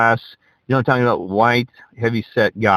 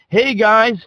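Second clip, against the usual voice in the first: imitating the driver; 11 semitones higher than usual. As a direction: ham up his eager pitch to the boys. Driver's awkward question in car.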